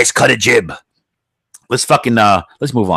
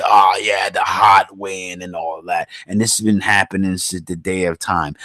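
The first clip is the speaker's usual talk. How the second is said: lower, dismissive mock voice of a know-it-all; mocking the skeptic; 4 semitones lower, 4 dB quieter than usual. Mocking a critic who blames hot winds, lower and dismissive. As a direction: sneer it out like the other side would. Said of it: "Listen, you can say".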